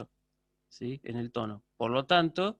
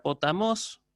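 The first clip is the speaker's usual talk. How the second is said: "potamos" with the pitch rising on "mos"; acute-accent rise ending "potamos"; raised final tone; slower than usual. Shown as a demonstration. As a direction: say "potamos", lifting the tone on its last syllable. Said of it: "elevando el tono".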